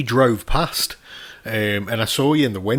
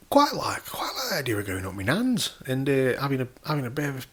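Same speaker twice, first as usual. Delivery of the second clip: imitated son; 3 semitones higher, 5 dB quieter than usual. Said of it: "He goes".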